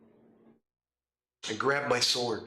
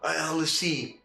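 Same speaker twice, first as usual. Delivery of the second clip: dithering player. Retold or imitated. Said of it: "you get players that do this".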